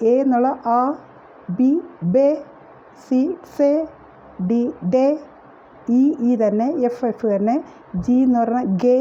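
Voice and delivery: ബേ, സേ, ഡേ, ഗേ said the German way; German letter names. Shown as a demonstration. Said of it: "ഇവിടെ അവർ പഠിപ്പിക്കുന്നത്". (German ഉച്ചാരണത്തിൽ അക്ഷരങ്ങൾ)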